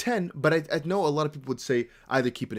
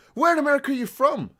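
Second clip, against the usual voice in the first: curious asker; 14 semitones higher, 6 dB louder than usual. Retold or imitated. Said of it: "a lot of people actually ask me".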